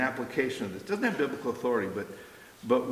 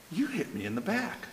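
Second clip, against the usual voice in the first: put-on laughing child quote; 4 semitones higher, 6 dB quieter than usual.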